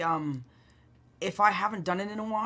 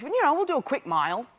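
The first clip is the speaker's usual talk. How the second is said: 1 Jake's American voice; 9 semitones higher than usual. Retold or imitated. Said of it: "So he goes".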